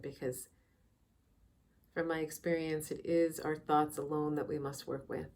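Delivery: soft, unhurried meditation guide with long pauses; calm, measured meditation voice; guided meditation. Real, not acted. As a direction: ease listeners into quiet reflection, leaving space between phrases.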